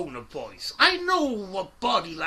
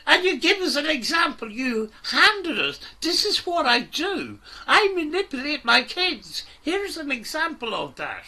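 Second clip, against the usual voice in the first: loud and higher, hammering each line; angry rant; 6 semitones higher, 4 dB louder than usual. Real, not acted. Host yelling at Cecil across the livestream, furious. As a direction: keep the fury going.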